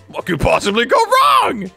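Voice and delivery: lightly mock a video host's catchphrase; YouTuber catchphrase. Gamer imitates every video's opening, mildly mocking shout. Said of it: "Every Jesse T C video be like".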